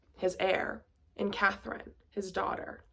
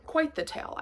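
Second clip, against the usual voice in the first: lightly hammed-up posh repeat, higher; a touch of a stuffy gentleman musing; mock posh echo; 8 semitones higher than usual. Vlogger echoing her own line in a mock posh voice. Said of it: "I say".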